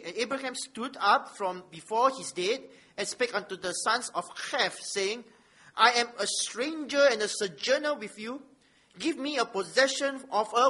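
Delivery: measured public reading of holy text; scripture reading. Acted. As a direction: read it out firmly to the congregation, weighting key words. Reads scripture aloud.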